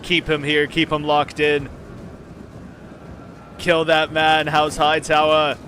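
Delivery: loud battle order; commanding shout. Real, not acted. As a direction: bark the order like a lord.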